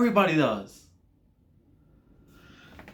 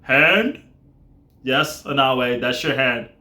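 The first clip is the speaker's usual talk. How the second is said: dopey voice; 5 semitones lower, slower than usual. Retold or imitated. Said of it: "there's just that dopey voice like".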